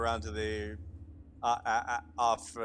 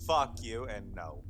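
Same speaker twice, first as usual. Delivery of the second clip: slow, low, deadpan refusal; flat refusal; 4 semitones lower, much slower than usual. Real, not acted. Player rejecting the reference, slow deadpan refusal. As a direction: drag out the refusal, unimpressed.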